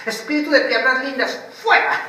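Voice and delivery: laughing through a high mock command; mock exorcism, laughing. Mocking a shouting believer, breaking into laughter. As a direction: giggle out the fake rebuke. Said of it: "Se pone a gritar".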